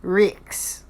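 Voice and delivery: "Rix." with a short i vowel; Kiwi Rix. Retold or imitated. Vlogger contrasting accents, "Rix." said with an i. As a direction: clip "Rix." like a New Zealander. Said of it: "They don't say".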